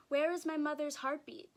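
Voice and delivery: put-on frightened baby. Baby calling out frightened for her mother's heartbeat. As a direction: cry out for mother. Baby's frightened inner cry.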